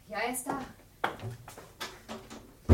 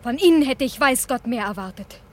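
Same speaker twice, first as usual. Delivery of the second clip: bitter reproach; 5 dB louder than usual. Acted. Wife bitterly reproaching detective.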